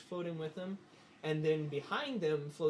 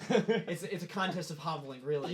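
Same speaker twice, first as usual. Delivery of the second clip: laughing; 3 semitones higher, 6 dB louder than usual. Real, not acted. Laughing at the hobbling joke.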